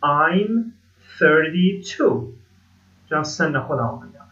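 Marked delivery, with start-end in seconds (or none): 0.0-2.2 slow, carefully spaced teacher model; slow model sentence. Shown as a demonstration. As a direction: lay each syllable out for learners to copy.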